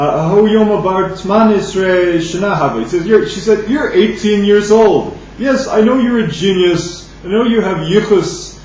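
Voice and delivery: ordinary talk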